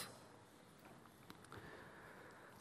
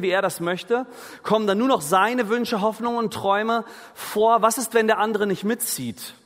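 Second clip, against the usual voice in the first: besorgte Gedanken; 5 semitones higher than usual. Retold or imitated. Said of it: "der ein oder andere denkt sich wahrscheinlich".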